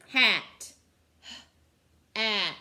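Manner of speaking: Hat said loud and drawn out; word stretched and stressed. Shown as a demonstration. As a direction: punch out Hat clearly for the class. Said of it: "What makes the I sound".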